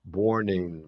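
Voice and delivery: Born in linked into one word, borNin; linked pronunciation. Shown as a demonstration. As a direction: run the N of Born straight into in. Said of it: "Olha a conexão que vai acontecer desse N aqui".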